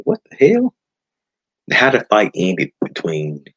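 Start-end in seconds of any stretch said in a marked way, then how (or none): 0.0-0.7 the shocked reaction he had in the theater; stunned outburst. Retold or imitated. Watching the fight end, he recalls his stunned outburst. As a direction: pitch jumps way up on "what the hell". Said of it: "made me just say".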